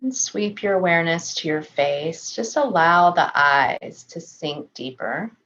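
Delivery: calm, measured meditation voice with long pauses; unhurried body-scan guidance, settled and even; guided meditation. Real, not acted. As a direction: gently guide them through a body scan, leaving space to breathe.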